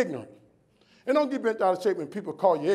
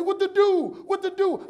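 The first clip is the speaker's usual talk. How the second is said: much higher, frantic repeated question; panicked client; 12 semitones higher, 3 dB louder, slower than usual. Retold or imitated. Client rushing up on stage, frantic and much higher. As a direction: flap like a man who has no idea what to do.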